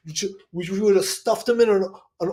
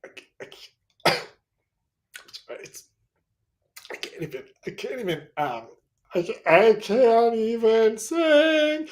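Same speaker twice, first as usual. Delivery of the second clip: choked up; 3 semitones higher, faster than usual. Acted. Choked up, crying feigned.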